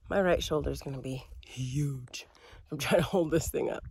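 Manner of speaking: breathy whisper; whispered aside. Real, not acted. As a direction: tell it as a hushed aside. Aside about tired arm.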